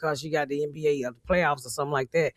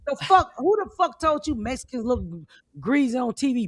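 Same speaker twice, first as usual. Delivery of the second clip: incredulous; 6 semitones higher than usual. Retold or imitated. Outraged rant about makeup.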